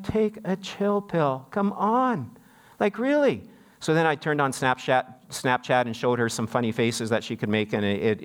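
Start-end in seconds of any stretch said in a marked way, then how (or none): 0.0-3.4 mock exasperation. Retold exasperation at worked-up aunt.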